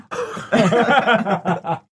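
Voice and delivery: high nervous laugh; nervous laughter. Real, not acted. Reacting to a crude joke among friends, nervous laughing. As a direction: burst of high, uneasy laughter. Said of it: "Nervous laughter".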